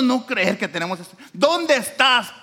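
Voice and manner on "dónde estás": slow, drawn-out high call, much louder. Acted. God searching for Adam in the garden, drawn-out loud call.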